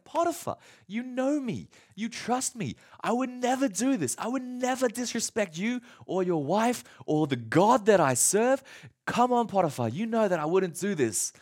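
soft, earnest plea to his master; mild pleading. Retold or imitated. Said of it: "Joseph pleads to Potiphar".

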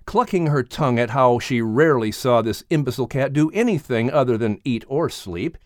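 ordinary delivery, nothing marked

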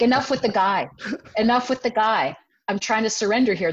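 mildly exasperated retort; mock exasperation. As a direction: push back, fed up but playful. Retells arguing back against the guy.

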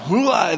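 mock vomiting noise, voiced upward; imitated dog retching. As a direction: heave it up like a sick puppy. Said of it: "he would bring it all back up".

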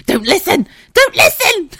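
high, loud shriek breaking into laughter; shouted plea. Retold or imitated. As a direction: shout in mortified panic, half laughing. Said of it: "I actually shouted".

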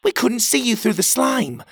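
high call from a distance. A narrator's reading. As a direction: shout across from the shell. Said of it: "Cogleen called out from the shell".

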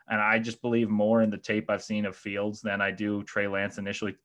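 talking through hiccups; words broken by hiccups. Real, not acted. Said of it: "I have the hiccups again".

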